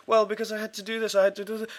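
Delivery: mock whiny manager. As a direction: pitch it way up to mock him. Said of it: "And he said".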